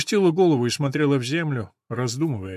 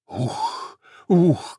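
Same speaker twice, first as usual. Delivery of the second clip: cough; 3 semitones higher than usual. Acted. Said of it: "кашляла Мэри".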